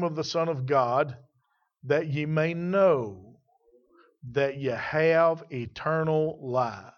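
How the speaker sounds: slow, measured Bible reading; stately pulpit recitation; scripture reading. Real, not acted. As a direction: read the verse out deliberately, pausing between phrases. Reads the verse aloud.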